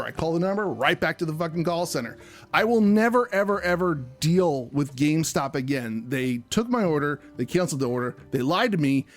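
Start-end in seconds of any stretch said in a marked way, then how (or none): 2.5-6.0 1 angry outburst. Real, not acted. Ranting about GameStop to cohost.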